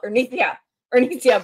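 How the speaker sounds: calling out through gritted teeth; hushed urgent yell; whisper yell. Retold or imitated. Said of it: "it's like that whisper yell".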